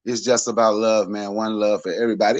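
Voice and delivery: low, laid-back one-love voice; lazy, low Rasta guy preaching love; mock Rasta dude. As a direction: imitate a mellow corner-store Rasta, pitched low. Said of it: "It's a dude I used to see at the corner store".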